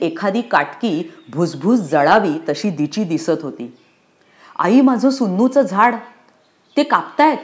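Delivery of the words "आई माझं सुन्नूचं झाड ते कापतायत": high, breathless panic to her mother; gasping out that they're cutting the tree; a child's voice pitched up high in fear; frightened child. Acted. Frightened girl runs to mother.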